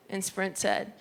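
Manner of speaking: usual speaking voice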